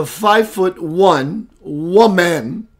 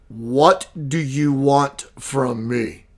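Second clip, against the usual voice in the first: slow, lower, a lightly voiced masculine presence; a hint of a powerful being, drawn out; masculine entity voice; 3 semitones lower, much slower than usual. Retelling the alien greeting, slow and lightly masculine. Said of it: "the energy that came out of her was very, very masculine".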